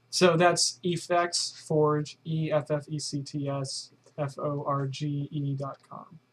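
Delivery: slow, letter by letter spelling of Effects Forge; careful dictation of the web address; spelling out the website. Shown as a demonstration. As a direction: spell "E F F E C T S F O R G E" out one letter at a time. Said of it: "w w w dot f x forge dot com".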